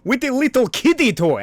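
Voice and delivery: high, put-on Russian accent; hammed-up Russian accent, pitched high. Podcaster playing Alexei finishing his joke, Russian accent. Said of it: "what his Russian accent is".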